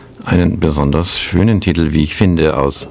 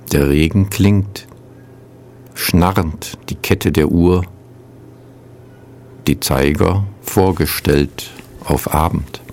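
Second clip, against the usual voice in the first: measured poem recital with long pauses; poetry reading. Acted. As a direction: read each line as verse, letting it settle. Reads a poem on radio.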